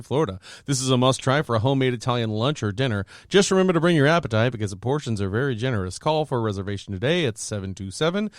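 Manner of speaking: brisk, even restaurant promo; sponsor ad read. Real, not acted. Host reads Italian restaurant sponsor to listeners, ad-read delivery. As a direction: read the copy smoothly without lingering.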